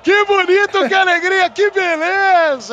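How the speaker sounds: very high, loud joyful cries; goal celebration catchphrase. Acted. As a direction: belt it, stretch the last word.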